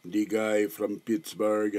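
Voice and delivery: slow, lightly put-on Austrian accent on "the guy from Pittsburgh"; "the guy from Pittsburgh" in a slowed, half-hearted Austrian voice; Arnold Schwarzenegger imitation. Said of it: "my terrible Arnold Schwarzenegger imitation".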